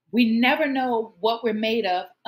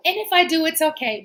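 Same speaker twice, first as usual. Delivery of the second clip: fighting back tears; 5 semitones higher, faster than usual. Real, not acted. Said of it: "not gonna get emotional".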